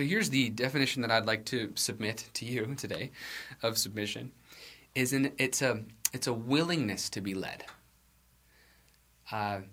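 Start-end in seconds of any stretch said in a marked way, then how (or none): 6.1-7.6 willingness leaned on a little; a touch of weight on willingness; stress on willingness. Shown as a demonstration. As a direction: give willingness a gentle push. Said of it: "emphasis on the word willingness".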